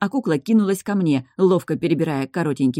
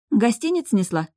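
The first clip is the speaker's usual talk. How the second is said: higher, dryly amused; wry smirk; 6 semitones higher than usual. A narrator's reading. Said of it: "хмыкнула я".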